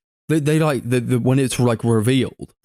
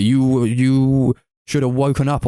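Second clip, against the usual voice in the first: slow, drawn-out mocking read; mock written message; 3 semitones higher than usual. Reading out the bloody wall message, slow mock voice. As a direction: draw out the words in a put-on voice. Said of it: "like, saying, like".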